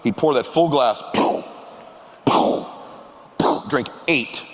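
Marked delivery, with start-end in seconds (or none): 1.1-3.6 short punchy "pow" bursts; imitated pouring noise. Retelling dad's drinking, mimicked pour sounds. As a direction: pop out each pour with a puff. Imitates the gin being poured.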